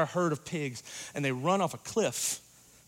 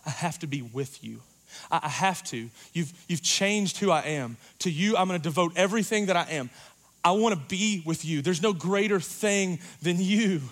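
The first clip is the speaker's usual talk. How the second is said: crying out, begging; 4 semitones higher, 4 dB louder than usual. Retold or imitated. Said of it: "he cries out and says".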